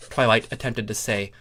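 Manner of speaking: ordinary delivery, nothing marked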